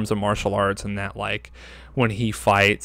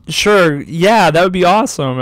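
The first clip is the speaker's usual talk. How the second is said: higher, louder mock approval; imitated girls' enthusiasm; 6 semitones higher, 6 dB louder than usual. Girls answering the boastful rival, mock eager. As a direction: play the girls cheering him on.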